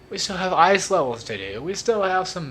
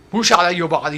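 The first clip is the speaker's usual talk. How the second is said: Wario voice; 2 semitones higher, 5 dB louder than usual. Shown as a demonstration. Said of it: "deeper version of Mario".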